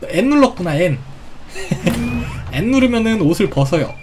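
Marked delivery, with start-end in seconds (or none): 1.0-2.5 real quiet giggle; soft laughter. Real, not acted. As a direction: laugh softly at the mishap. Laughs at mistake.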